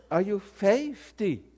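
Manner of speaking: fifty drawn out Southern-style, "FAY-fty"; mock Southern bank lady asking slowly; Southern dialect. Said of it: "I know Southern dialect".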